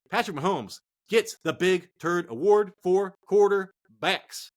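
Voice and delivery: slow, hammed-up award presenter; mock award announcement. Host handing out a joke award, slow and grand. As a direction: crown him with a mock ceremony.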